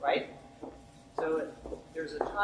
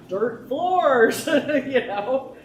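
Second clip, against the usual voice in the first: dismayed memory; 5 semitones higher, 8 dB louder, much slower than usual. Retold or imitated.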